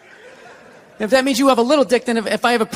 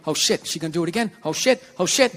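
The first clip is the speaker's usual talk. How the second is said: softer, hurried worried thoughts; nervous inner voice; 4 semitones lower, 3 dB quieter than usual. Retold or imitated. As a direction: think aloud in mild panic. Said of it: "immediately just start thinking".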